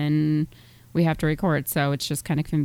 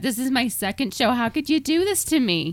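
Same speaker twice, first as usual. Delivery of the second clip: upset; 6 semitones higher than usual. Pretend. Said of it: "I'm just so upset".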